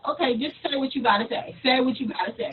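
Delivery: quick, quiet impatient reply; impatient listener. Retold or imitated. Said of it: "They're gonna be like".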